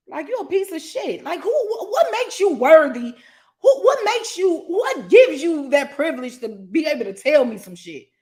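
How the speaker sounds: half-laughing, half-crying rant at the doubters; laughing, indignant outburst. Retold or imitated. To people who called her ugly, a high laughing rant.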